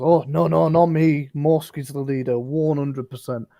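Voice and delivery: lightly voiced bugbear protesting loudly; nervous bugbear denial. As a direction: pass the buck in a hurry, protesting. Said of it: "bugbear sort of looks at him and goes".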